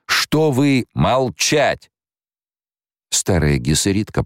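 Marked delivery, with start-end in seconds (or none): 0.0-1.9 very slow demand. A narrator's reading. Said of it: "emperor demands answer".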